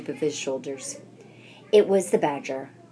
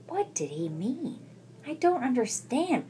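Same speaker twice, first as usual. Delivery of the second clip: piping; 8 semitones higher, 4 dB quieter than usual. Acted. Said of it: "piped Mona".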